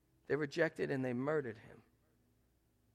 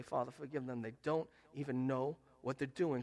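"forgive" said lower and softer; gentle modelled prayer; 3 semitones lower, 4 dB quieter than usual. Shown as a demonstration. Preacher shows how to forgive a hurtful relative, soft and low. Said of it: "You need to look at him and say".

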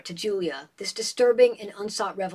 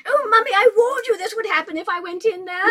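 much higher, louder accusing whine; a spoiled girl blaming Mummy; complaining daughter; 11 semitones higher, 6 dB louder than usual. Acted. Julia blames her mother for the engagement, high whine.

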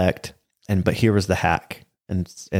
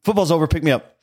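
put-on kid voice; 7 semitones higher, faster than usual. Kid's collect-call name recording.

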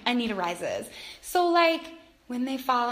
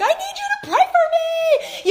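put-on high, louder little-kid plea; child asking; 6 dB louder than usual. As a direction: ask like a needy child. Voicing her kids asking.

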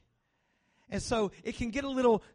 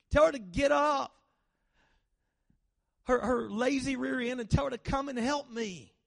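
higher, sassy, fed-up complaint; exasperated sister demanding help, pitched up with attitude; sassy Martha; 5 semitones higher, 4 dB louder than usual. Acted. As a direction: whine at Jesus like an overworked, frustrated sister. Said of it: "you hear this kind of sass in her voice".

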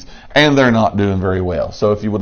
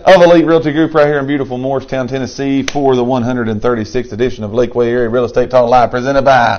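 announcer voice; 2 semitones higher than usual. Acted. Show intro continues.

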